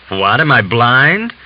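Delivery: slow, scornful rhetorical jab; sarcastic retort. Acted. Officer mocking the Cossack's correction, slow and scornful. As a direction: drag out the sarcasm.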